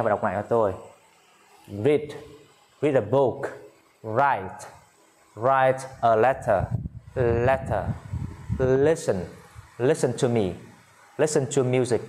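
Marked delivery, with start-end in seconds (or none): 1.7-12.0 measured word-by-word classroom reading; listen-and-repeat model reading. Shown as a demonstration. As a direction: model each phrase clearly for learners, pausing between. Models words for learners to repeat.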